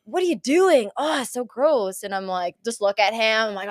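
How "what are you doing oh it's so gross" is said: disgusted son. Retold or imitated. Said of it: "Like, so disgusted".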